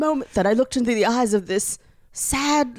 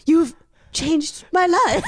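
slow, overwrought thank-you through a laugh; dramatic mock gratitude; 4 semitones higher, slower than usual. Mock-moved reply to a stranger's compliment, slow and hammy. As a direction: ham up a tearful thank-you. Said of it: "a dramatic turn and a look like".

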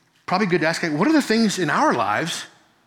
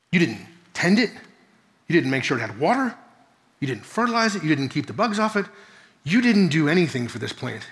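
patient God voice; 2 semitones lower than usual. Retold or imitated. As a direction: gently reason with him like a patient father. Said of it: "slows down, small words, short sentences".

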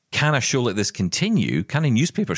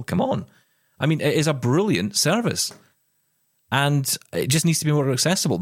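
higher, heated plea, pushing the point hard; worked-up rant; 4 semitones higher than usual. Real, not acted. Host venting at the RNIB to make its service accessible, ranting. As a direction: let the frustration spill out and climb. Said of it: "an early rant".

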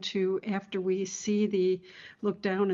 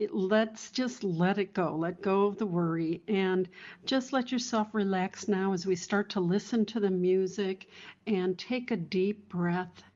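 guided meditation. Acted.

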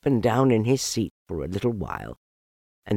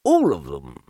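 sulky; 6 semitones lower, 3 dB louder than usual. Acted. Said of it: "said Owl sulkily".

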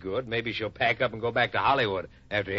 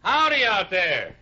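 calling out; 6 semitones higher, 4 dB louder, slower than usual. Acted. Calling out to visitor outside.

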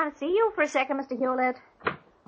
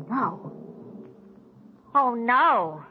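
horrified; 2 semitones lower, much slower than usual. Acted. Discovers body in trunk.

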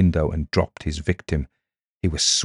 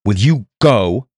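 loud, slow, higher demand; crying out; 4 semitones higher, 6 dB louder than usual. A narrator's reading. Reese demands that Miss Withers leave, crying out. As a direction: cry it out insistently, drawn out. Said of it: "cried Reese".

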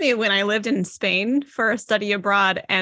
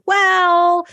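doubting well; 9 semitones higher, 5 dB louder than usual. Retold or imitated. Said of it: "but then we can be like".

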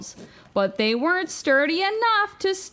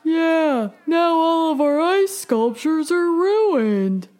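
loud, upset villager; loud villager complaint; 2 semitones higher, 4 dB louder than usual. Acted. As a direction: complain loudly about the ruin.

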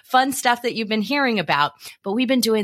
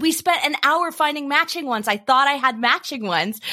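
horrified mom; 5 semitones higher than usual. Retold or imitated. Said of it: "And she was horrified".

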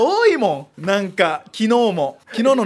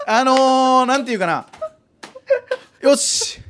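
normal talking voice

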